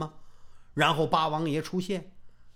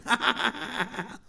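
a strange falling cackle; odd character laugh; 4 semitones higher, 4 dB quieter than usual. Acted. Sun Jin laughing to provoke his rival, odd cackle. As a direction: let out a weird, silly laugh. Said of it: "你怎么笑呢".

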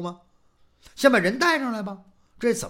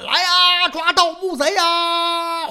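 high, loud drawn-out call to catch the thief; shouting for help; 10 semitones higher, 7 dB louder, slower than usual. Retold or imitated. A guard calling out loudly to catch the grave robber. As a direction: yell out to rally the guards. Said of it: "掉进去就听有人喊".

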